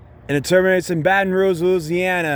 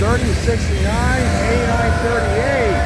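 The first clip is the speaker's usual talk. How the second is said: real excitement; 6 semitones higher than usual. Real, not acted. Railfan filming the heritage unit passing, genuinely thrilled. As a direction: shout your amazement as the long-awaited engine rolls by. Rare heritage locomotive finally appears.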